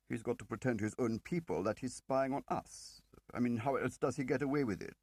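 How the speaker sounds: a slippery agent talking his way out for George; Toby's voice. Acted. Narrator voices Toby's long reply.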